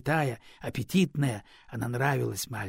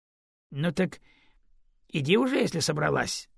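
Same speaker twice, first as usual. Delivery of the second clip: plain reading voice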